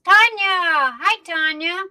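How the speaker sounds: light up on seeing her; excited call. Real, not acted. Host spotting a friend in the chat, delighted.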